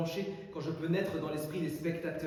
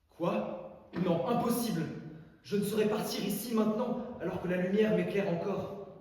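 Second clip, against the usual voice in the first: loud, high theatrical protest; dramatic outcry; 5 semitones higher, 5 dB louder than usual. Acted. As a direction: cry out against leaving the stage. Orator acts refusal to leave stage. (protestation théâtrale)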